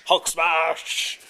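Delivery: loud Hulk growl. Retold or imitated. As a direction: bellow it like the Hulk. Quoting the Hulk catchphrase.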